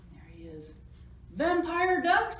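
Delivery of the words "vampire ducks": high, loud, slow storybook scream. A narrator's reading. Friends discovering vampire ducks, screaming. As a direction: stretch it out in mock horror. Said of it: "they screamed".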